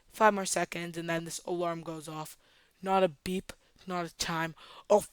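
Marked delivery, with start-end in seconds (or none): 4.9-5.0 high, loud, blaring exclamation; hammed-up alarmed holler; dramatic shout. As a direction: yell it like the alarm itself.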